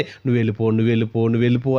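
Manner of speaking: pleading demon. Retold or imitated. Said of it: "ఏడుస్తూ, కేకలేస్తూ, వేడుకుంటుంది".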